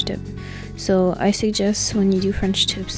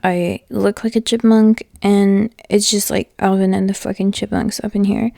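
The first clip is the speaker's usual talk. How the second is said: talking through a swollen mouth after tooth removal; words thick from a puffy jaw. Real, not acted. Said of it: "my mouth is so swollen and I sound like a chipmunk".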